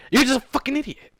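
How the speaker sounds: high, loud scolding outburst; frustrated shout at a story character; exasperated yell. Real, not acted. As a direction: yell at him for being dumb.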